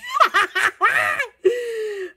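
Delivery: long helpless cackle; laughter. Real, not acted. Joking to viewers about the iPod, high helpless laughter. Cracks up at own joke.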